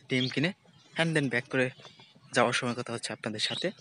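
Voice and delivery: toothbrush in mouth; while brushing teeth. Real, not acted. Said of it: "brush করতে করতে হাঁটতেছি".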